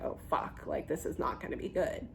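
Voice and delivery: hushed, scared whisper of a nurse; frightened whisper. Retold or imitated. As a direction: breathe it out like a caught nurse. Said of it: "They looked like".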